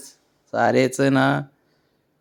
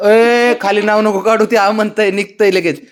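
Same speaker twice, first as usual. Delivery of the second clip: calling out to pet; 10 semitones higher, 7 dB louder than usual. Real, not acted. Owner calling her dog, high and loud. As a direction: call the pet off, raised and high. Scolding pets from across room.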